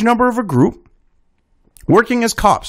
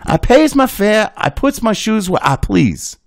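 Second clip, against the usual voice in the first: Southern dialect. Acted. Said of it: "have a Southern accent like that".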